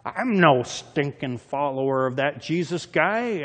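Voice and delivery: slow, cursing denial; Peter. Acted. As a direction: disown him in a drawn-out mock curse. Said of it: "invoke a curse on himself and to swear".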